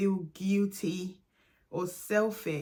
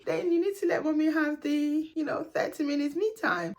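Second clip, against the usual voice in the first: reminding son; 5 semitones higher than usual. Retold or imitated. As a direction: talk to a small child, upbeat but setting a rule. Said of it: "I had to remind him so many times".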